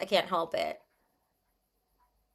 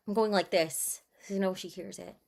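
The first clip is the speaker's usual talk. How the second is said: ordinary talk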